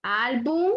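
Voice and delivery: "Álbum" with a long stressed "Ál"; stress on penultimate syllable. Shown as a demonstration. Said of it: "En la penúltima sílaba".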